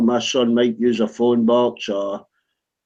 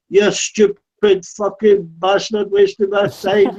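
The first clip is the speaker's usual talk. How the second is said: mock furious insult; 5 semitones higher, slower than usual. Salesman cursing the homeowner as he drives away, slow angry mock rant. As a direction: drag out the insult like a seething salesman. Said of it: "He's going".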